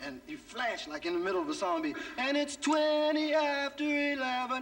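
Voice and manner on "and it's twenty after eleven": sudden realization. Retold or imitated. Realizing time mid-song.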